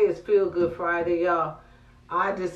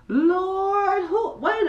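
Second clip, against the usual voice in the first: pained exclamation; 13 semitones higher, much slower than usual. Real, not acted. Neck pain exclamation high.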